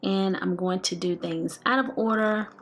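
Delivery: talking around whitening trays. Real, not acted. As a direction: speak with trays in mouth. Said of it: "I'm wearing my whitening trays".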